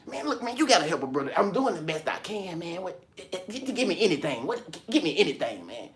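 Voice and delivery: pleading beggar. Retold or imitated.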